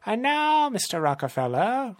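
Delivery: high-pitched villain voice; theatrical villain; gloating villain. Acted. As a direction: address the captive with relish. Villain addresses his captive.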